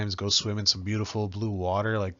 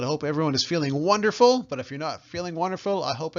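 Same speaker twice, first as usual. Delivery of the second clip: brighter and louder, stressing "wonderful"; upbeat correction; 5 semitones higher, 3 dB louder than usual. Shown as a demonstration. Teacher upgrades her goodbye wish, cheerful and louder. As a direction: lift it up on "wonderful". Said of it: "I'm gonna fix that a little bit".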